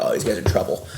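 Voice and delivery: whispered aside to himself; quiet knowing murmur; under his breath. Retold or imitated. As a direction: breathe it, unvoiced, like a private thought. Thinking to himself, spotting trouble.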